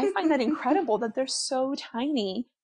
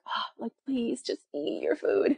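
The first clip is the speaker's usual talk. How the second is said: pleading look voiced; 3 semitones higher, slower than usual. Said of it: "my face is like".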